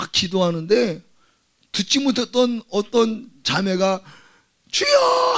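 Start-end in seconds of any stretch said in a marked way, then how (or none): 4.7-5.3 high, loud mock cry to God; imitating a tearful, shouted plea; imitated wailing prayer. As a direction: cry out like someone sobbing in prayer. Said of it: "울면서 막 통곡하고 막 기도".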